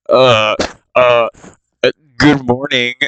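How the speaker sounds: unsure, stumbling good morning; hesitant stammer. Retold or imitated. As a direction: fumble the greeting nervously. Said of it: "He's just like".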